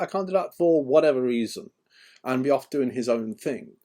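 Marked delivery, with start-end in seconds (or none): 0.0-0.5 high, loud mock refusal, winding down; stubborn refusal. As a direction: repeat the refusal, still much higher and louder. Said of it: "he'd be like".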